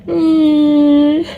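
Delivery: high, loud drawn-out "mm"; long high moan; pained groan. Real, not acted. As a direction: groan it out through closed lips, high and loud. Groaning amid a painful day.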